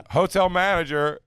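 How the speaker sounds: high, slow, announcing the manager; mock stern hotel manager. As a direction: call it out slow and high like a stiff hotel clerk. Mocking the hotel manager's call.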